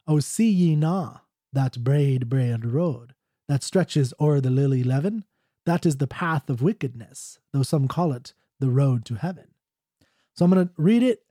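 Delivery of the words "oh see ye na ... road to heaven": stanza recited with a rough Scottish lilt; light, badly faked Scottish accent. Shown as a demonstration. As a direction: read the old ballad in amateur Scots. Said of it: "here's how it actually sounds ... really bad Scottish accent".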